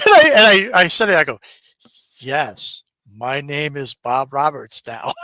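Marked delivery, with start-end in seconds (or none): 2.2-5.1 drawn-out, measured declaration; retold reply, spaced out word by word; slow, deliberate insistence. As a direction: state the fake name slowly and deliberately. Insisting on fake name to caller.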